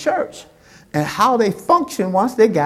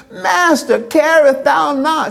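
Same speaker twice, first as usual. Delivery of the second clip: disciples' panicked plea; 6 semitones higher than usual. Acted. Voicing panicked disciples in storm.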